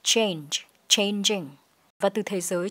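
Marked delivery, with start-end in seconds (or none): 0.0-1.5 CHANGE and CHANGING with a j sound; clear j sound. Shown as a demonstration. Teacher models word endings, clear j in CHANGE. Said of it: "chúng ta có âm j".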